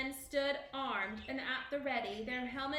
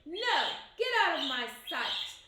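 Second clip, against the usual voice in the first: loud, high shout at the ghost; terrified shout; 4 semitones higher, 7 dB louder than usual. A narrator's reading. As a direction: drive the ghost away, yelling. Macbeth facing the ghost.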